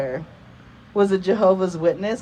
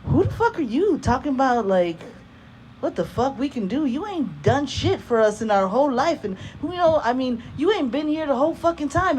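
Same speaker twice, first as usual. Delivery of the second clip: higher-pitched retold teenage outburst; indignant teen; 5 semitones higher than usual. Fifteen-year-old daughter telling off absent dad, indignant teen. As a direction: talk back like a fed-up fifteen-year-old, voice climbing. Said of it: "little fifteen-year-old me".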